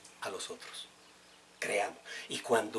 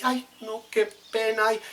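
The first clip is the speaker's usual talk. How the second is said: embarrassed guest; 9 semitones higher, 5 dB louder than usual. Retold or imitated. Preacher mimics the embarrassed visitor apologizing, high. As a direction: ham up the guest who broke the glass, high. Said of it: "cuando se despide dice".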